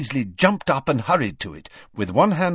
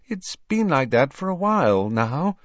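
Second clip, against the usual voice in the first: forced casual; 6 semitones higher than usual. A narrator's reading. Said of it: "in an unconvincingly casual voice".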